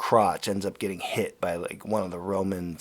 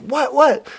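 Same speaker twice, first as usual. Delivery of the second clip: higher, louder startled what; alarmed loud what; 10 dB louder than usual. Retold or imitated. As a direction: blurt it out, startled and confused. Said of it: "And he's like".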